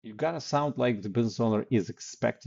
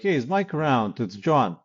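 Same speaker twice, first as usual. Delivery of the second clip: casual command; 4 semitones higher, 5 dB louder than usual. Shown as a demonstration. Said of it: "Similar thing".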